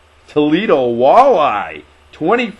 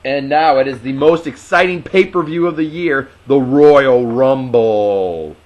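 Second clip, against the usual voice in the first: sarcastic announcer. Pretend. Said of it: "I don't know why you're being sarcastic".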